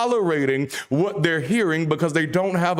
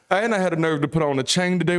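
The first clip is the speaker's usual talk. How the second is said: quicker run through the same line; faster repeat; faster than usual. Shown as a demonstration. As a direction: rattle it off faster this time. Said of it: "repeats line for effect".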